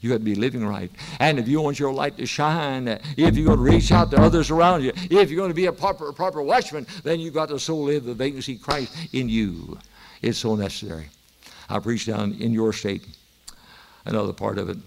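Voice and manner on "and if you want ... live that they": loud, driving sermon delivery; emphatic preacher's push; forceful preaching. Real, not acted. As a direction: press the exhortation home, phrase by phrase.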